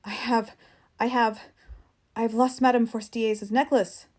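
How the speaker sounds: rising, halting panic; panicked stammer. Acted. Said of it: "She turned madly toward him".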